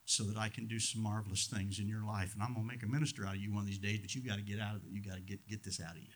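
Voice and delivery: hushed voice of the Holy Spirit correcting him; gentle hushed voice. Retold or imitated. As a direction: let the Spirit speak softly and quickly. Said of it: "the Holy Spirit whispered and said".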